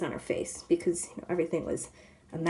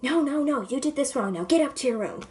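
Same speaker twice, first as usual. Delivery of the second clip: normal scolding mother; 5 semitones higher than usual. Retold or imitated. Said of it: "like a normal mother would be like".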